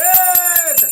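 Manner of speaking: loud, high burst of awe; awed exclamation. Real, not acted. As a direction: blurt it out amazed. Awed by the deep study.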